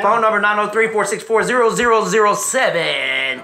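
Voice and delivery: punchy, projected ad-read voice; sponsor read. Acted. Host reading out the sponsor's phone number, ad read. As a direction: sell it like a radio spot.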